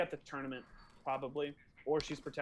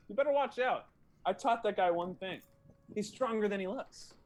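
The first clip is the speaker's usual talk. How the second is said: lightly acted warning, raised and louder; 4 semitones higher, 5 dB louder than usual. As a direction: warn the opponent with some force. GM voices warning to opponent.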